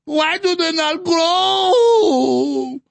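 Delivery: slow, high whiny fake Hispanic accent, half crying; mocking cartoonish Hispanic accent. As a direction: drag it out in a put-on Hispanic accent. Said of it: "This weird fake Hispanic accent".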